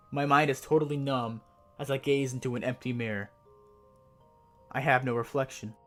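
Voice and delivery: measured, ominous horror narration; hushed creeping horror. A narrator's reading. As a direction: read it like a creepy campfire tale. Creepypasta horror story reading.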